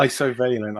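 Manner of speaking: isovalent as EYE-so-VAY-lent; own pronunciation. Shown as a demonstration. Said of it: "I call it".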